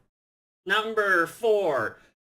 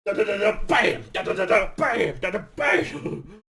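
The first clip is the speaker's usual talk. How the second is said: mouthing quick shots and a bang; imitated gunfire; 3 semitones higher than usual. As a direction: tap out the shots with your voice. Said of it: "I saw him go".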